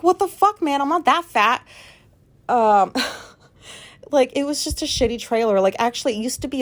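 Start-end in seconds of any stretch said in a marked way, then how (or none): 0.0-1.6 high, loud indignant squeal; mock outrage. Retelling her fall through the floor, mock outraged squeal. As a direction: act outraged after crashing through the floor. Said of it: "And I was like".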